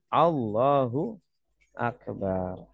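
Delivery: Allahu with a short A, slowly and deliberately; correct short A. Shown as a demonstration. Teacher repeating the correct takbir, short A. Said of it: "bacanya pendek".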